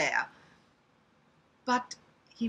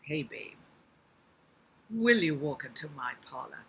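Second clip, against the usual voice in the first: low American-accented spider; 5 semitones lower than usual. Shown as a demonstration. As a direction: coax in a put-on American accent. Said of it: "I can't do American accents very well".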